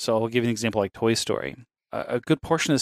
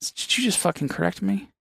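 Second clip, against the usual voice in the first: pitched way up in mock outrage; mock indignant; 9 semitones higher than usual. Retelling his outrage at a friend's correction, mock indignant. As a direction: act offended that anyone would dare correct you.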